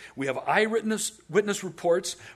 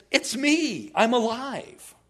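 Jesus declaring; 7 semitones higher, 4 dB louder, slower than usual. Retold or imitated. Now he has to say.

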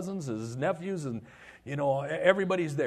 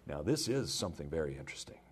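awed whisper; 9 semitones lower, 6 dB quieter than usual. Acted. Disciples stand back amazed.

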